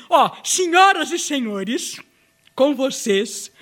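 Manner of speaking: showy host introducing a guest; grand entrance announcement. Acted. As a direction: announce her like a star.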